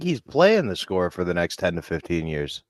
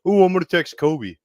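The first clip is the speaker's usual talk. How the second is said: excited; 11 semitones higher, 6 dB louder than usual. Real, not acted. Excited aside about texting.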